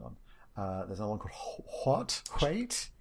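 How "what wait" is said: "What? Wait?" as high questioning guesses; tentative, pitched-up guesses at "What", "Wait"; puzzled pronunciation attempt. Shown as a demonstration. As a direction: try out "What" and "Wait" with rising doubt. Trying to say the odd title Hwaet.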